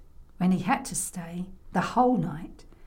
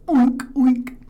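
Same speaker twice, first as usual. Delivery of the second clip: two loud oinks; pig oinks; 3 semitones higher, 7 dB louder than usual. Acted. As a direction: oink like a pig. Imitates the pig.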